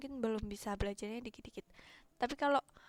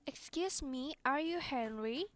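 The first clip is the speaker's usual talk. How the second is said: reading aloud model; 3 semitones higher, slower than usual. Shown as a demonstration. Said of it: "Excuse me itu permisi ya".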